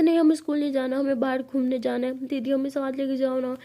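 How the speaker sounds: put-on loud, whiny child protest; whining kids. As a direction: stamp your feet like a kid. (स्कूल से मना करते बच्चे)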